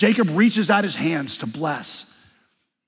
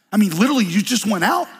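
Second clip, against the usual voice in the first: suspicious father; 5 semitones higher, 4 dB louder, faster than usual. Acted. Suspicious Isaac questions speed.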